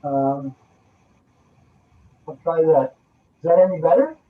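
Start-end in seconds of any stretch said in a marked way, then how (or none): 2.3-4.2 hollow, echoey, as if from inside a tunnel. Real, not acted. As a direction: voice coming from far down a tunnel. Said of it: "You're still in a tunnel".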